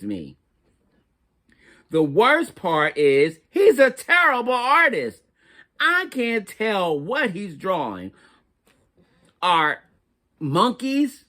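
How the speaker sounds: put-on an exasperated crayon venting about the baby; fed-up chunky crayon. Crayon complains about baby brother.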